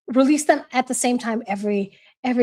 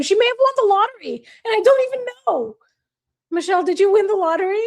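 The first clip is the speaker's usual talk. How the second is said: fast, high, laughing tease; giddy joking question to a friend; giggly and excited; 5 semitones higher, faster than usual. Real, not acted. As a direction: rattle it off through laughter. Jokes friend won the lottery.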